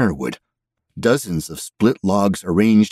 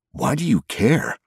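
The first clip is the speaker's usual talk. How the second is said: puzzled; 9 semitones higher than usual. Acted. Narrator bewildered.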